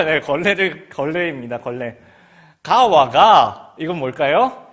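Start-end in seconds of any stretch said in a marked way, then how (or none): 2.6-3.7 loud, very slow Gyeongsang 가와가; Gyeongsang dialect. Retold or imitated. Teacher telling pupils to bring a rag, slow loud Gyeongsang. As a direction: stretch the dialect order out. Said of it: "경상도 말로".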